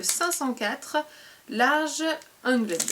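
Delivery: put-on slow, jokey English accent on the product name; mock English accent. Reading the brush's English name to viewers, mock English accent. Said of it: "avec mon super accent anglais".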